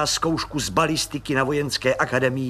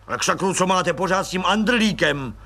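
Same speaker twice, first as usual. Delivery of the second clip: impatient snap; 4 semitones higher than usual. Acted. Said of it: "utrhl se netrpělivě plukovník".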